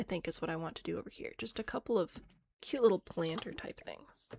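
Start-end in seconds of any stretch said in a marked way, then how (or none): 2.6-4.3 "planter" said oddly and drawn out; odd pronunciation. Real, not acted. Streamer choosing garden decorations, oddly pronounced "planter". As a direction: draw out "planter" in a slightly weird way. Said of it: "I don't know why I said it like that".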